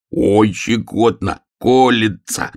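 loud, ticklish laughing squeal, slow at first; bear cub squealing. Acted. Bear cub sitting on the prickly hedgehog, yelling and laughing. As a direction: yelp through the tickles. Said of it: "вопил медвежонок".

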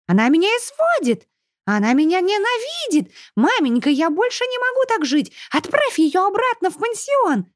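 very high whiny shriek, stretched out; shrieking spoiled girl. A narrator's reading. Chubby girl shrieking for her mother. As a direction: wail for mama like a spoiled brat.

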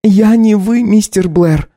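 high cutting retort; Katya, sharp wife. Acted. Wife pointedly calls her husband mister. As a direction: stress the formal мистер coldly.

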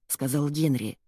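plain reading voice

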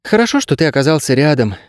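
put-on high, plainly grateful girl voice; simple sincerity. A narrator's reading. Girl thanking the dog for being near, sincere. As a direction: say it simply, meaning it. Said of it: "просто сказала Кейса".

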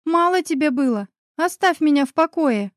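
woman in shock turning hysterical. A narrator's reading. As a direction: break into hysterics, pushing him away. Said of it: "переходя из стадии шока в истерику".

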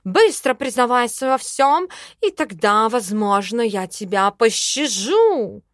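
loud demand, slowing at the end; mock threat. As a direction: play the menacing interrogator. Cat interrogates the elf.

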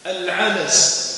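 العلس said very slowly, every sound clear: al-ʕalas; careful pronunciation. Shown as a demonstration. Teacher giving students the grain name, slow and careful. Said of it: "العلس باللام".

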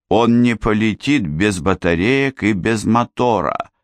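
lightly squeaky, singsong mimicry; mock his singsong accent, a bit squeaky. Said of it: "передразнил песклявым голосом напевный акцент Адама".

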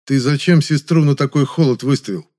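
usual speaking voice

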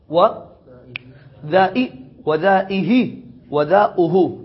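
وذائي وذائه وذاؤه spelled out slowly, each ending distinct; slow careful listing. Shown as a demonstration. Teacher lists the four forms for the class, slowly. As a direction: say each form slowly and clearly. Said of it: "إذن أرفع أربعة ألفاظ".

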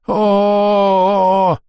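very high, loud drawn-out scream; blasted elf howling; elf's long scream. A narrator's reading. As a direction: howl as the spell hits.

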